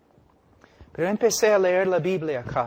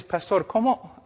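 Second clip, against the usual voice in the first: questioning listener; 5 semitones higher than usual. Retold or imitated. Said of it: "Tú dices".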